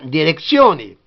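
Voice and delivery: "direzione" with ts, stressed on O; Italian pronunciation. Shown as a demonstration. Teacher showing the Italian word, sounded final vowel. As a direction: say "direzione" as dee-re-TSYO-ne. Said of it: "En italien".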